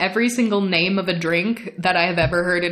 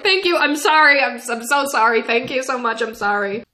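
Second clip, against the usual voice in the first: flustered apology; 5 semitones higher than usual. Retold or imitated. Flustered apologies to doorman, retold.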